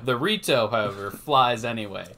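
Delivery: booming mock movie opening narration; movie narrator voice. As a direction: read it like a film's opening narrator. Bee Movie narration parody.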